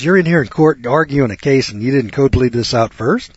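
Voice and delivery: mildly exasperated judge, retold; exasperated scolding. Judge scolding lawyer for skipping code pleading, mock exasperated. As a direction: imitate a judge taking a lawyer to task.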